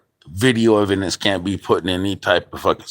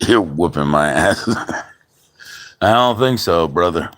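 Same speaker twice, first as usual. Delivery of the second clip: laughing taunt. Real, not acted. Laughing taunt back at opponent.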